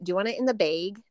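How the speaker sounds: "bag" said as "baig", quick; quick local question, "bag" rhymes with "vague"; imitating local accent. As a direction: say "bag" with a long ay vowel like "baig". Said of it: "I really noticed the whole bag thing".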